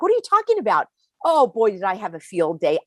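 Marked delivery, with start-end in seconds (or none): 0.0-0.9 shocked disbelief, voice jumping high; incredulous. Retold or imitated. Wife hearing husband's news, incredulous and high. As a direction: retell your stunned reply to husband's news. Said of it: "And I'm like".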